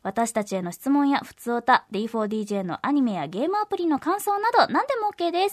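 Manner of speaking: upbeat announcer with lifted phrases; polished promotional announcement; radio promo read. Acted. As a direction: pitch the news to listeners clearly. Reads programme notices.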